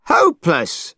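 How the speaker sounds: a falling, scornful echo of the word; Monkey repeating his insult; angry repeat. Acted. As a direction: spit the word out again. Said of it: "shouted Monkey, angrier than ever".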